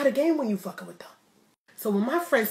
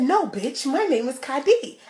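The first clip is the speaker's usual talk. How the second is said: mock sassy retort; 5 semitones higher, 4 dB louder than usual. Imagined retort to the girl.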